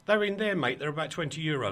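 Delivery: lightly imitated matey London accent; a touch of chummy Londoner. Helpful stranger to shopper about jack prices, in a London accent. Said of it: "in a beautiful London accent".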